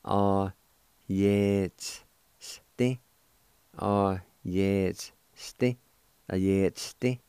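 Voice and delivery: yet sti said slowly with a rising end; sounds broken apart. Shown as a demonstration. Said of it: "like this".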